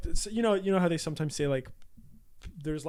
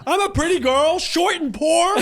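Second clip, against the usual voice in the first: laughing; 9 semitones higher than usual. Retold or imitated. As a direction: shout it through laughter. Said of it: "Those are the two worst things".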